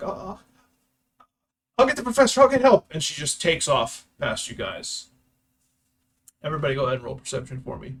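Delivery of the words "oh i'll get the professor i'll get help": very high, very loud, frantic panicked scream. A game master voices a fleeing character calling out to the players, screaming. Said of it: "she screams like".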